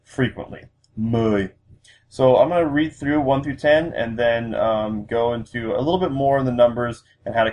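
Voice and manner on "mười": "Mười" as one gliding diphthong, pitch going down; falling tone. Shown as a demonstration. Teacher repeating Vietnamese ten, "Mười" with falling tone. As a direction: let the pitch drop through "Mười". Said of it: "It's a falling tone".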